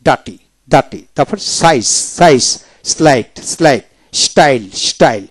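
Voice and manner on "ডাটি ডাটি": ডার্টি as "daa-ti", R silent; British dropped R. Shown as a demonstration. Teacher shows British form to learners, ডার্টি without R. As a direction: drop the R in ডার্টি. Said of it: "ব্রিটিশে".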